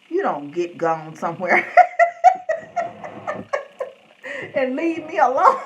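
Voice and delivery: mock grumble breaking into high laughter; voicing the cat. Voicing Gray the cat telling Tyler off, laughing. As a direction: play the fed-up cat, then crack up. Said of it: "He be like".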